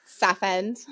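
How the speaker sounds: Essex "South End", then "Babes" set apart; Essex accent. Acted. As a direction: deliver the words one by one in Essex style. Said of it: "some Essex into the chat".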